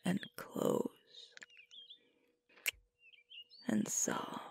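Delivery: slow, gentle whisper; barely voiced, intimate whisper; soft whisper. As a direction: whisper it close, with long pauses between. Soft intimate opening of audio roleplay.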